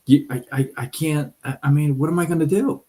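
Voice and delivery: lightly acted helpless mouse, voice rising; flustered pleading. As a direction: plead and stumble over your words. Mouse begs chicken for help.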